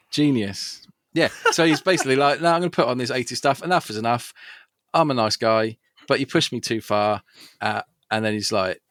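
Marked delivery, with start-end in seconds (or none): 1.1-7.2 excited. Real, not acted. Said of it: "the excited energy in your voice".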